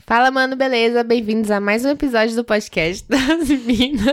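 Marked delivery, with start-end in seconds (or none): 3.0-4.1 intro broken by giggles; laughing through the welcome. Real, not acted.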